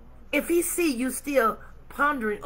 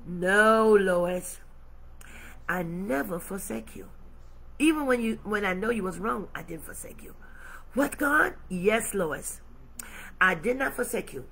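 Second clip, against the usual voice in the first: God's voice; 3 semitones lower, 3 dB quieter than usual. Acted. God answering Lois's doubt.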